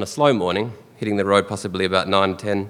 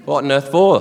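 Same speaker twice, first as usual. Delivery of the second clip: higher, louder incredulous question; baffled doctor; 5 semitones higher, 5 dB louder than usual. Retold or imitated. Doctor questioning dad's odd request, baffled. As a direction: ask it in mock disbelief.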